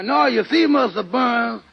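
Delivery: ordinary talk, nothing marked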